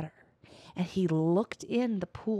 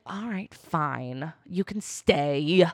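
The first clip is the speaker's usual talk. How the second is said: slow, grudging relent; reluctant giving in; 2 semitones lower, much slower than usual. Retold or imitated. Ole sparing the dwarves, slow and grudging. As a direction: sigh it out, caving. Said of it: "And so he was like".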